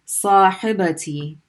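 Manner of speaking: Sahibati said slowly, syllable by syllable; slow teaching read; slow careful. Shown as a demonstration. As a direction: spell Sahibati out slowly for learners. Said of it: "Ta followed by ya".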